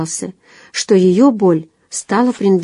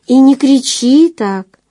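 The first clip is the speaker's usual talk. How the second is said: loud rebuke; 6 semitones higher, 5 dB louder, slower than usual. A narrator's reading. He scolds her shouting.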